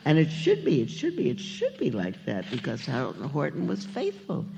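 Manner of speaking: lively, lilting read-aloud of rhyming verse; story narration. A narrator's reading. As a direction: read it like a picture book to children. Reads a children's story aloud.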